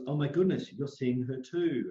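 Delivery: high, loud gasp of shock; shocked friend. Retold or imitated. Retelling his friend's shocked reply on the phone, loud and high. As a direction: blurt it out like she can't believe it.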